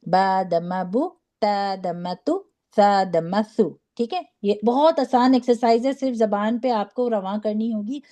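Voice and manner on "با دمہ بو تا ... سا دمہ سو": measured "بو، تو، سو", ending in oo without a jerk; even rounded oo. Shown as a demonstration. Teacher modelling damma drill for students, measured and even. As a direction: read "با دمہ بو" evenly with rounded oo. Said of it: "نہ جھٹکا دے کے پڑھتے ہیں".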